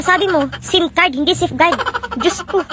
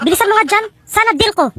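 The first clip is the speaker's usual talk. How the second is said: higher-pitched, impatient demand; irritated shouting; 6 semitones higher than usual. Acted. Customer hurrying the shopkeeper, irritated raised voice. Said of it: "Huwag mo akong sigawan".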